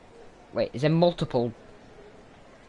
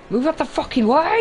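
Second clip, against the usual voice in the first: loud, high, strained shout; furious yell; 12 semitones higher, 4 dB louder than usual. Real, not acted. Player yelling at game crowd, furious shout. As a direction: scream it at the crowd.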